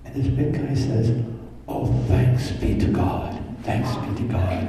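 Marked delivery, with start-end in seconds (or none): 1.7-4.6 slow, breathy thanks, close to tears; a touch of tearful gratitude; choked relief. Retold or imitated. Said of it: "he breaks down crying".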